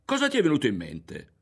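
agitated shout. A narrator's reading. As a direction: cry out in indignation. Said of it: "gridò".

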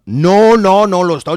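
pushy reassurance; loud protest. Acted. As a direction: jump in to defend. Defending priest loudly.

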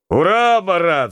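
high, loud hurrah; cheering shout. Acted. Mate cheering Marat's challenge, loud shout. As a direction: cheer him on at full voice. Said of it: "закричал Козырев".

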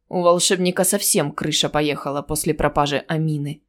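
lightly nasal, a bit low; slightly nasal voice. Acted. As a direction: speak a little through the nose. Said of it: "негромкий, немного гнусавый голос". (слегка гнусавый голос)

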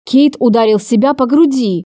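ordinary delivery

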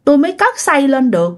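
put-on a high, pleading voice, like a weeping old ghost; lightly voiced sad ghost begging not to be taken; tearful pleading ghost. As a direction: beg the monk, a touch tearful. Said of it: "vừa nói vừa khóc mà nghe tội nghiệp".

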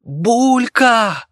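high, loud scream of the name; horrified scream. Acted. Martin and Viki scream as the monster falls off the cliff, horrified shout. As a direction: scream it in horror. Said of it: "в один голос закричали".

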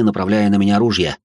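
ordinary delivery, nothing marked

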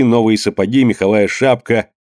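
ordinary delivery, nothing marked

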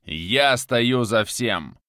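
slow, loud hammered statement; harsh retort. Acted. Viktor admits everything, harsh and slow. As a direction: cut him off, every word hard. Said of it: "Жёстко отрезал Виктор".

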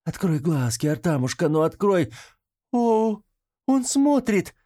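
Niela, overjoyed, sees Artam open his eyes, voice climbing high; joyful relief. Acted. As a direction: burst into relief as he wakes.

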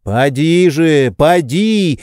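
pleading high, slow insistence; insistent urging. A narrator's reading. Oblomov insisting his servant go out. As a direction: press him to go, insistently. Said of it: "настойчиво твердил Обломов".

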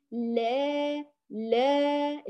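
long لا leaning toward "lee"; alif with imala. Shown as a demonstration. Teacher shows two faulty degrees of inclined alif, toward e. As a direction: bend the aa of لا toward e and hold it. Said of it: "إمالة صغرى وإمالة كبرى".

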